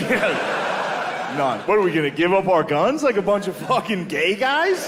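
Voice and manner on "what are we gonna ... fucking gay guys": mock indignation. Acts out indignant gun owner.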